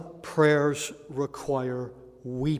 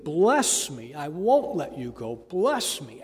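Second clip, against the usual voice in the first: begging plea; 3 dB louder than usual. Retold or imitated. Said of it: "he begged, he pleaded".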